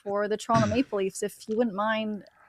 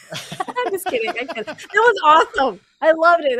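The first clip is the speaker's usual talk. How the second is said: excited; 6 semitones higher, 6 dB louder than usual. Real, not acted. Takes back harsh judging.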